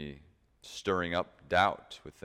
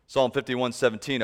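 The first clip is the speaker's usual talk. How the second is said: preached out loud; 4 semitones higher, 5 dB louder than usual. Shown as a demonstration. Repeats the verse reference, preaching.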